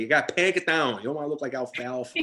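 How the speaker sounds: lightly voiced nagging parent; mock fussing parent. Parent to child before school photo, lightly mock fussing. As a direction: imitate a parent fussing over hair.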